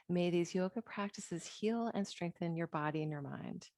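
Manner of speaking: soft blessing. Acted. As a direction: offer it like a quiet prayer. Blessing said softly.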